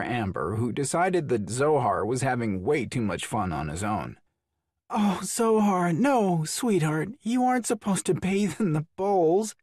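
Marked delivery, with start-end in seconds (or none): 4.9-9.5 laughing. A narrator's reading. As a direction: laugh while scolding gently. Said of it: "Abby laughed".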